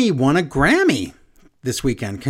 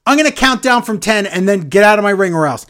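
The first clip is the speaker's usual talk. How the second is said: raised-voice imitation of an ultimatum; aggravated threat; 4 semitones higher, 5 dB louder than usual. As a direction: imitate a fed-up wrestler threatening. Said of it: "Owens gets all aggravated".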